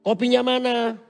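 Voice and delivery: loud call for coffee across the house; husband yelling. Retold or imitated. Husband shouts to his wife for his morning coffee. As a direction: shout to the wife from the other room. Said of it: "bapaknya teriak".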